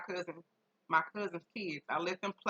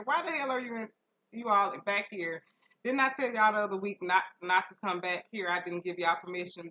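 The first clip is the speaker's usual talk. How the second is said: mock scolding; 3 semitones higher, 3 dB louder than usual. Scolding the neighbor kids.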